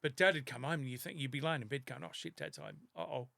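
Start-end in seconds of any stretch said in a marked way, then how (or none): 2.0-3.3 put-on scared hushed kid.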